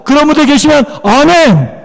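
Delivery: insistent call to the congregation; rousing amen call. Real, not acted. 시원치 않습니다.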